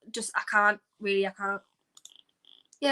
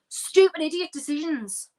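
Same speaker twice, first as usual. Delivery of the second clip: slow, exasperated complaint; 3 semitones higher than usual. Real, not acted. Fan fuming at the team's substitution, exasperated. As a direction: fume at a bad call.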